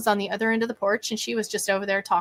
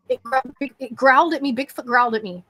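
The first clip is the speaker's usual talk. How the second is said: retold freaking out; 4 semitones higher, 3 dB louder, faster than usual. And I'm freaking out.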